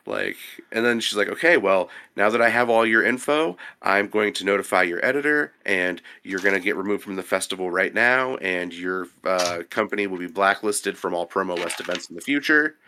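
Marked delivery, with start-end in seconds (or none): none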